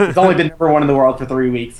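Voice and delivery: chuckling through the line; laughing. Real, not acted. Podcast host joking to co-host, laughing. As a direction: laugh while making the point. Joking about a singer's chart run.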